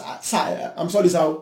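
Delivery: hushed, pleading apology; meek whispered apology. Retold or imitated. Servant to his master, pleading in a hushed voice. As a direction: whisper it like a scolded boy. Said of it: "He said".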